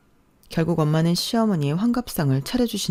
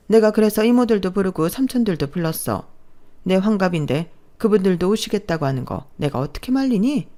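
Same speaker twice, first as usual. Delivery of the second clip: bossy mother-in-law; 3 semitones higher than usual. Acted. Mother-in-law brushing off objection.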